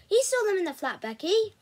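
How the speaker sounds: high, loud, insistent appeal; heated argument with a friend; urgent pleading. Acted. Narrator's character argues back urgently.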